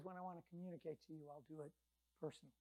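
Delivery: God speaking personally, dropped right down; intimate hush. Acted. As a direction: lean in and say it privately. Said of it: "But he says".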